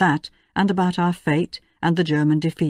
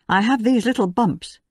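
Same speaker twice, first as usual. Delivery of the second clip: sure of herself; 5 semitones higher than usual. Acted. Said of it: "she declared, very sure of herself".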